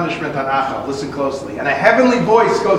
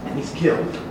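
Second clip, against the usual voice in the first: whispered; 3 semitones lower, 8 dB quieter than usual. A narrator's reading. Dramatic climax of the story.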